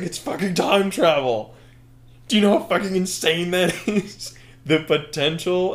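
high, hammed-up villain raving; mock manic excitement. Dick Dastardly defending time travel to Dan, high acted excitement. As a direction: rave with a laugh breaking in.

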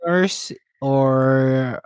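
put-on slow broken-English Filipino accent; mock Filipino accent. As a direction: play the eager Filipino nanny, slowly. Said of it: "I'm from the Philippines".

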